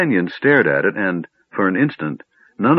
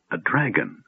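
much softer, shattered; broken whisper; 6 dB quieter than usual. Acted. Gilthanas reeling from the truth, soft and broken. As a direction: let it fall out of him, broken. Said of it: "he whispered brokenly".

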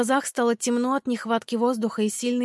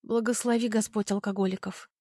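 ordinary delivery, nothing marked

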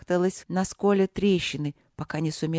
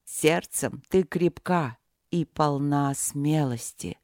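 slow, low booming god; thunderous voice; 3 semitones lower, slower than usual. Acted. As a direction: speak slowly like a deity. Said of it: "раздался громовой голос".

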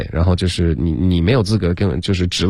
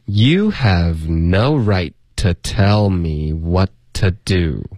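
very slow, drawn-out teaching read; slow model reading; much slower than usual. Shown as a demonstration. Teacher reads for students to repeat, very slowly. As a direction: stretch each word out for learners to follow. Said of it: "那我们来读两遍".

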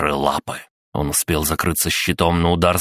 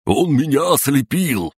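high-pitched cry of distress; panicked wail; 10 semitones higher than usual. Acted. Sapper blinded by the robot, crying out in distress.

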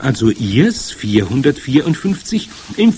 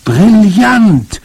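much higher, louder cry of delight; exclaimed; 9 semitones higher, 11 dB louder than usual. A narrator's reading. Grandmother bursts out praising the boy's idea. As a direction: burst out with joy. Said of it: "rief meine Großmutter aus".

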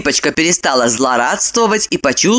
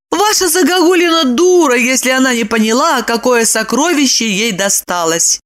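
emphatic Lipochka; 6 semitones higher than usual. Acted. Lipochka concludes his wife is a fool, emphatic. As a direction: deliver the verdict with conviction.

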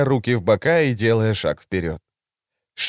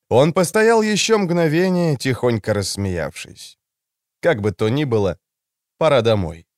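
ordinary delivery

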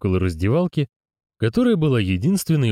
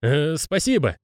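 shouted over the roar; 7 semitones higher than usual. A narrator's reading. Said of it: "проорал Мокрест".

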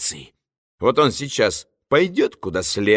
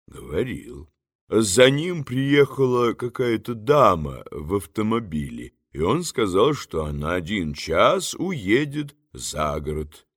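low, soft, unhurried phone voice; a calm stranger answering from far away; 4 semitones lower, 6 dB quieter than usual. A narrator's reading. The voice on the phone answers Varenukha, low and soft. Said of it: "продолжала трубка".

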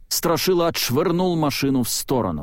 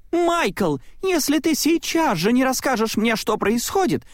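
очень высоко и громче, с ультиматумом; закричи в ярости на Майка; крик Селии; 13 semitones higher than usual. A narrator's reading. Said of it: "закричала она". (Селия в гневе кричит на Майка, высоко и громко)

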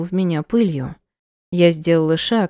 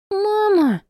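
put-on very high little girl's cry; child crying. Little girl reaching for her, crying out. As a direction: wail it like a small child.

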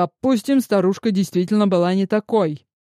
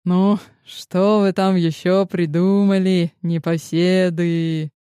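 put-on sweet old lady. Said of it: "Словно добрая бабушка проворковала".

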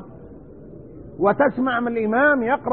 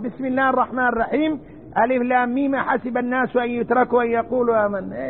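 fast, hurried Quran reading without tajweed; mock sloppy recitation; rushed careless recitation. Shown as a demonstration. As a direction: rattle it off carelessly. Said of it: "إيش هذا؟ هذا ما يقرأ".

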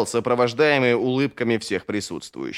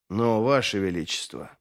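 low, soothing objection; 4 semitones lower, 4 dB quieter than usual. A narrator's reading. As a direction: gently placate the young king, voice lowered. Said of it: "успокаивающе начал Торли Горм".

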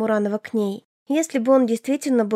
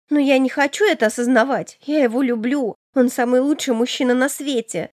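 a hint of a dreamy innocent sister; young sister; 2 semitones higher than usual. Elena insists tearfully. (чуть выше, наивная юная сестра)

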